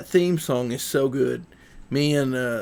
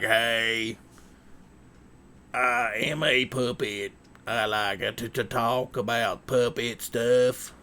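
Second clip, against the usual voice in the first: lightly voiced talking puppet; 4 semitones lower, 4 dB quieter than usual. Streamer showing a viewer what a puppet says, lightly put-on voice. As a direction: speak up lightly as a simple puppet. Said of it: "have a puppet and be like".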